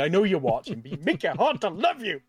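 high, half-joking plea; mock pleading. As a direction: plead with a wink. Pleading to Sony.

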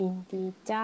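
softly imitated Northern Thai, long rising เจ้า; drawn-out Northern Thai. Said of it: "長く、ちょっとゆっくりめに話すのがコツ".

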